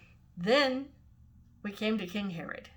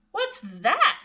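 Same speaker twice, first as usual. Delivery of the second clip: high loud yelled question; 10 semitones higher, 6 dB louder than usual. A narrator's reading. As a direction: shout it out in confusion. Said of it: "they would yell".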